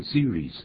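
"serious" cut to two syllables, like series; wrong two-syllable "serious"; ending swallowed. Shown as a demonstration. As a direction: mispronounce "serious" as see-rees. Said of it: "不是念serious".

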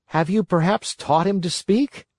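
lightly voiced wooden puppet; a hint of a curious puppet. Pinocchio asks the driver.

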